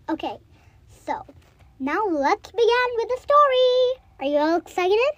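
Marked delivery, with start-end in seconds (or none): 1.8-5.1 excited. Real, not acted. Hyping the story start.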